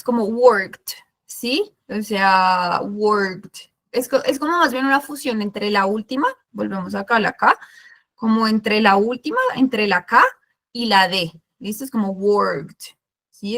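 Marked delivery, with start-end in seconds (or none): 0.2-0.9 worked como «workt», una sílaba; K y D fusionadas. Shown as a demonstration. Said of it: "Es como que la fusionas". 2.8-3.5 worked como «workt», una sílaba; K y D fusionadas. Shown as a demonstration. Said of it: "Es como que la fusionas". 12.1-12.8 worked como «workt», una sílaba; K y D fusionadas. Shown as a demonstration. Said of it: "como que las unes las dos".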